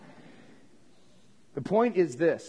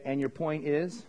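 loving retort; 6 semitones lower, 6 dB quieter than usual. Retold or imitated. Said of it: "I just lovingly say".

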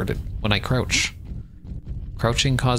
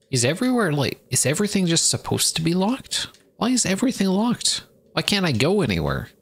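exasperated; 7 semitones higher than usual. Real, not acted. Frustrated at all locked doors.

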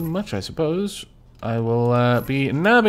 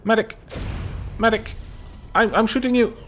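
man down shout; 6 semitones higher than usual. Real, not acted. Calling repeatedly for medic under fire.

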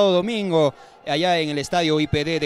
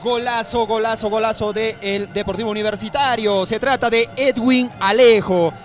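excited commentary; 4 semitones higher, 3 dB louder than usual. Real, not acted. Co-commentator celebrating goal.

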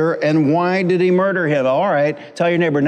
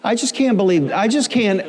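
much higher, pleading and whining; whiny complaining man; 6 semitones higher than usual. Retold or imitated. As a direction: whine it like a man who can't believe his ears. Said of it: "He said".

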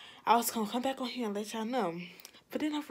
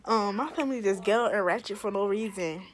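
smacking gum while talking; chewing gum; 4 dB louder than usual. Real, not acted. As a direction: talk through loud gum chewing. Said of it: "I just realized I was smacking this gum kinda hard".

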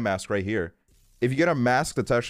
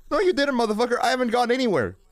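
exasperated outburst; 12 semitones higher than usual. Real, not acted. Exasperated denial of sighting.

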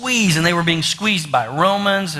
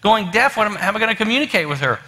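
higher, mildly exasperated inner rant; acted mild frustration, pitched up; a little frustrated; 5 semitones higher, faster than usual. Husband despairing over wife going deaf, a little frustrated. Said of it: "he's getting a little frustrated".

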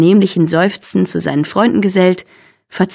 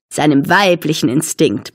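"weiblichen" stressed with a grin, lower-pitched; emphatic, grinning; 4 semitones lower than usual. A narrator's reading. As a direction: underline "weiblichen" with sly emphasis. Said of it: "betont Billy grinsend". ("weiblichen" grinsend betont)

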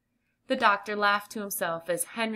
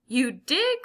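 high, loud surprised question; excited cry; 6 semitones higher, 5 dB louder than usual. A narrator's reading. Doctor reacting to the boy's race win, excited cry. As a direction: exclaim it, pitched up and louder. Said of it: "cried Doctor Moore".

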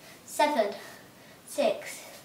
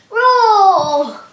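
loud lion roar; 3 semitones higher, 9 dB louder than usual. Shown as a demonstration. Teacher counting the push-ups with a loud lion roar. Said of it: "and then you go roar".

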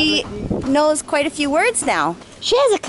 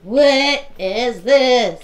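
put-on reading to a toddler; much slower than usual. Mother naming pictures with toddler.

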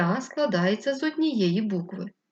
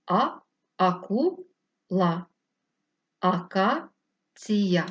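"акула" and "акація" drawn out very slowly; slow syllable demo; much slower than usual. Shown as a demonstration. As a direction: sound out each word syllable by syllable. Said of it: "Наприклад".

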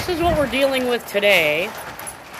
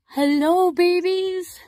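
higher sing-song hello; 9 semitones higher, slower than usual. Real, not acted. Greeting her koi as babies, high and delighted. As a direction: coo a bright hello to them.

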